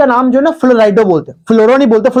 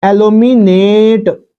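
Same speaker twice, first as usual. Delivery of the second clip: slow dictation; much slower than usual. Shown as a demonstration. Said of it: "तो aluminate बोलेंगे".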